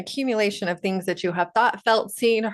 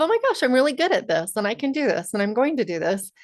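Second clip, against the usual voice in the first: higher, fast, excited self-belief; upbeat can-do burst; empowered energy; 5 semitones higher, faster than usual. Shown as a demonstration. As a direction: rattle it off, thrilled with yourself. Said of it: "It feels very different to be in that energy of".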